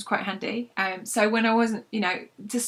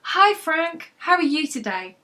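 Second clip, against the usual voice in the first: Rosie's greeting; 8 semitones higher, 5 dB louder, slower than usual. Acted.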